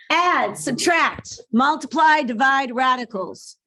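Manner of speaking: each step punched out slowly; emphatic listing. Shown as a demonstration. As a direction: spell out the operations, loud and slow. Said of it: "teacher stating the steps".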